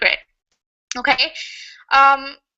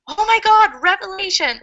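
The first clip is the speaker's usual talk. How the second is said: mock revelation; 6 semitones higher than usual. Shown as a demonstration.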